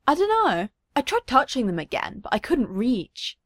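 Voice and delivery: put-on high, small child's shrug of a voice; little girl. Little Ochako answering her parents, in a high childish voice. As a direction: sound like a puzzled toddler.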